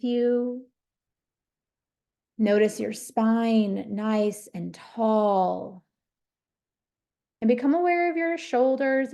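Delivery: unhurried meditation guidance with long pauses between phrases; guided meditation. Real, not acted. Teacher guiding listeners to notice their breath and body, guided meditation. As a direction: lead them gently through it, leaving space after each phrase.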